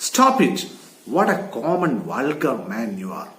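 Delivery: wife scolding her vulgar husband; scornful wife. Acted. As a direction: shut him down with disgust. Wife cutting him off.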